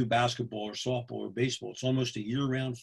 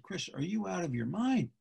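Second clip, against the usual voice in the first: higher-pitched incredulous question; retold disbelief; 5 semitones higher, 4 dB quieter than usual. Referee questioning his fussy colleague, retold incredulity. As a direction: ask it in mock disbelief.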